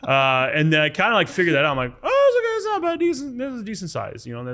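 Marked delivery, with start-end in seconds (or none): 2.0-4.2 mock self-reassurance. Reassuring himself about the cut.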